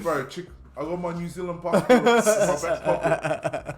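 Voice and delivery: put-on loud, laughing New Zealand accent; hammed-up Kiwi accent, dragging the end; thick Kiwi accent. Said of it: "step it up real quick".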